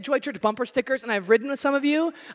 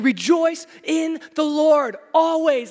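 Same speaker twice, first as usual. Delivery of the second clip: slow, louder, ringing out the verse; loud proclamation; 3 semitones higher, 6 dB louder, slower than usual. Retold or imitated. Preacher proclaiming the verse loudly to the congregation. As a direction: declare it to the whole room. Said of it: "This is saying".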